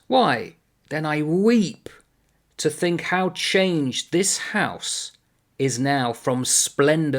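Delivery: slow, emphatic declaiming with weighted pauses; dramatic verse reading. Acted. Lecturer reading the sleepless watchman's speech to students, slow dramatic recital. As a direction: recite it as a tragic monologue, slowly.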